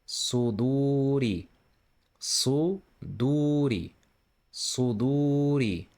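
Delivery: Suduri with a thick emphatic s, slow; tongue back down, thicken the s in Suduri. Shown as a demonstration. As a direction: Suduri with a heavy s. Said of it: "just try to pronounce it thicker".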